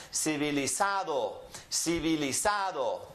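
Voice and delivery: "Civilizado" with the stress on "za"; teacher models "Civilizado", emphasizing the next-to-last syllable. Shown as a demonstration. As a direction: lean on the "za" in "Civilizado". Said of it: "next to last that gets emphasized".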